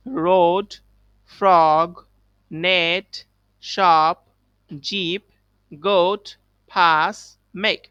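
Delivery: loud, clear word drill; read aloud loudly. Shown as a demonstration. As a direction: call out each word for the class. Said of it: "জোরে জোরে বলবো একসাথে". (জোরে জোরে উচ্চারণ)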